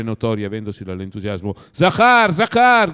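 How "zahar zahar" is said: higher and louder, long calling shout. Acted. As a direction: call the servant across the house. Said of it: "gridò a lungo".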